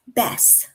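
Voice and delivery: bess, best without its final t; slow bess with no t; dropped last letter. Shown as a demonstration. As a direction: say best but stop on the s, as bess. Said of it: "drop off the last letter".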